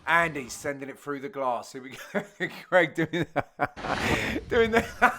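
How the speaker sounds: low voice breaking up into laughter; real laughing. Real, not acted. Commentator cracking up at Craig on screen, laughing. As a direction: try to talk through a laughing fit.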